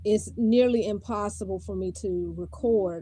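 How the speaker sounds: talking with a dislocated jaw. Real, not acted. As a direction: speak through a painful, stiff jaw. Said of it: "I think my jaw is dislocated".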